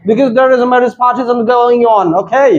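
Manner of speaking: slow, stretched mock American English. Shown as a demonstration. Teacher tells class to speak American English, slow mock American English. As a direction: play it like a show-off American. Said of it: "अंग्रेजी American में बोलो".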